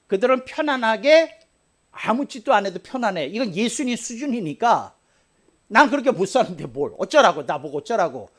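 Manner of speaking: mock the lazy churchgoer's excuse; mock complacent believer. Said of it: "너무 거룩하게 읽어서".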